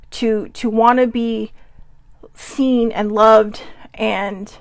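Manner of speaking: real emotion, halting and very slow; slow down as feeling wells up, long pauses; getting emotional. Real, not acted. Reader admits how much wanting love hurts, emotional. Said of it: "it's making me emotional".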